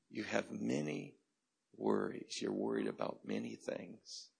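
gentle, unhurried reassurance; tender. Retold or imitated. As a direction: speak kindly and calmly. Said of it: "He says it so tenderly".

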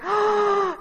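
high shocked gasp; playful shocked intake of breath; mock gasp. Real, not acted. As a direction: gasp at the audience in disbelief. Reacts to blank faces.

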